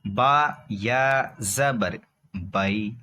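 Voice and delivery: بئی eased out evenly after drawn-out letter names; soft, correct بئی. Shown as a demonstration. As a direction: let بئی glide gently, no jerk or stretch. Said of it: "ایسے یہاں پر".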